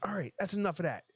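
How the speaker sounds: hammed-up hustler line; movie character voice. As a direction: act out the pool hustler. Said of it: "he's like".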